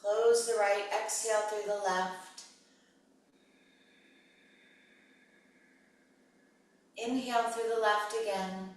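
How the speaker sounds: pace each cue to a breath, with long pauses; guided breathing cues. Real, not acted. Yoga teacher leading students through alternate nostril breathing, measured guided cues.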